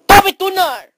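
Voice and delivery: high, loud call. Acted. Friend summoning Toby Tuner, high loud call. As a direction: yell the name to get attention. Calls out to the character.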